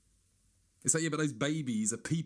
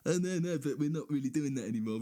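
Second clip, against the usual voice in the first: pleading voice; 5 semitones higher than usual. Retold or imitated. Voicing pleading people.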